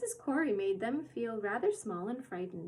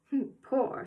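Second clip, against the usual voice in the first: contemptuously; 3 semitones higher, 5 dB louder than usual. Acted. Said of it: "said Mary Poppins contemptuously".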